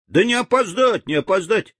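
high, fretful outcry; agitated. Acted. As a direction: fret about being late. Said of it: "заволновались живуны".

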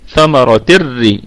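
ثمرة الري slow, the ta merged straight into the ra; idgham demo. Shown as a demonstration. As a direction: run ثمرة الري together with no nunation. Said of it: "روح على طول من التاء إلى الراء". (ثمرة الري بإدغام بغير غنة)

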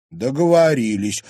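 loud, bright joyful agreement; joyful exclaim. A narrator's reading. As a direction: exclaim it gladly. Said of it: "радостно воскликнула Луиза".

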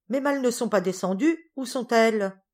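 high, loud, impatient questioning; impatient demand. Acted. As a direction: demand an answer from the maid upstairs. Impatient mistress questions her maid upstairs.

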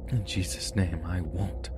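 quiet, strained through gritted teeth; through clenched teeth. Retold or imitated. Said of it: "Through clenched teeth".

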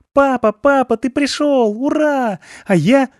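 put-on a kid overjoyed to see dad; excited child. Son greeting father, excited.

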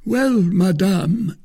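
slow, loud, high-pitched reproach; indignant Musketeer. A narrator's reading. Porthos answers the procurator's wife, indignant. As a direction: draw it out with wounded pride.

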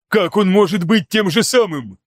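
high astonished exclamation; exclaiming. A narrator's reading. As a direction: cry out in disbelief. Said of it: "воскликнул Хафсыр". (изумлённое восклицание)

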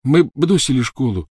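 nasal voice through a swollen nose. Acted. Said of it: "прогнусавил Рон".

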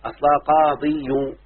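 قاضي said slowly, ending spelled out in full; teacher drawing out the root form of قاضي; slow spelled-out original form. Shown as a demonstration. Teacher showing a student the original form, slow and careful. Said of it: "انتبه يا بنتي".

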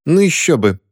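высоко и насмешливо; с усмешкой поддеть; усмешка. A narrator's reading. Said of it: "усмехнулась". (Дороти усмехается над Кристиной)

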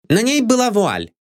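high, short answer; curt maid. A narrator's reading. Maid Anne answers the detective curtly. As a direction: stay clipped.

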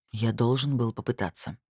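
сдержанно холодный ответ; отстранённо, без тепла; холодно. Acted. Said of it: "холодно ответил Крис". (холодно, чуть тише обычного)

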